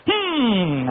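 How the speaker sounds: loud, drawn-out falling "mm"; mock the young man's long humming tic; mimicked hum. Comic showing how he hummed, exaggerated falling hum. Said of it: "así".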